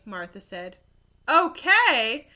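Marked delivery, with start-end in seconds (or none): 1.3-2.3 higher, louder disbelieving question; surprised exclaim. Acted. Rob questioning Martha about the moon, surprised exclaim. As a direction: toss it back in disbelief. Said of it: "Rob exclaimed".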